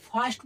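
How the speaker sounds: ফার্স্ট with its vowel said as a long "aa". Shown as a demonstration. Teacher shows students the vowel in first, pronunciation demo. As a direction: say ফার্স্ট with an open "aa" before "st". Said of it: "আয়ের উচ্চারণ আ হয়ে গেছে".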